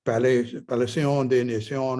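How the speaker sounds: Palais des Nations said the French way, pa-LAY day na-SYON; a playful stab at French to impress; mock French pronunciation. Shown as a demonstration. To impress people, a mock French Palais des Nations. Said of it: "if you want to sound French and impress people".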